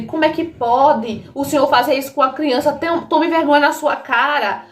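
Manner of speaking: retold reproach, pitch climbing to a peak; mildly acted outrage at a parent; indignant confrontation. Daughter confronts father over hungry child, indignant.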